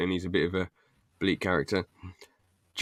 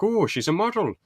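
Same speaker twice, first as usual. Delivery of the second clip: higher, starstruck tone; mock awed Roy; 10 semitones higher than usual. Fan quoting Roy eyeing the model, starstruck. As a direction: gush like a smitten nerd. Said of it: "he's just like".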